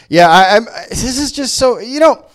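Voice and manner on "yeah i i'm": ordinary talk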